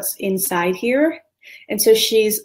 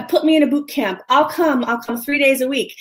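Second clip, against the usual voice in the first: higher-pitched eager plea, acted out; eager insistence; 5 semitones higher than usual. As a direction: imitate someone keen to sign up. Acts out an eager, pleading actress.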